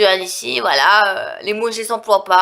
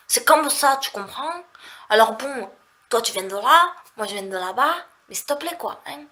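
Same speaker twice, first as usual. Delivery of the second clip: demonstrating a real southern French accent; 2 semitones higher than usual. Shown as a demonstration. Vlogger showing viewers the real accent, southern French. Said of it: "les vrais accents du sud".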